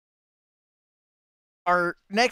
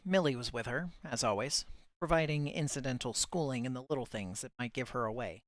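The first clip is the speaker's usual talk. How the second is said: measured audiobook-style reading; story narration. A narrator's reading. Reader presenting a submitted chapter from Bitzer, story narration. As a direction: read the chapter aloud in composed, shaped phrases.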